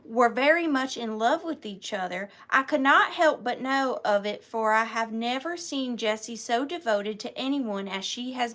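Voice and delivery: put-on Southern accent for a letter. Seller reads a parent's letter to John, Southern accent. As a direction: read it out like a Southern letter writer. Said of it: "read it in a real Southern accent".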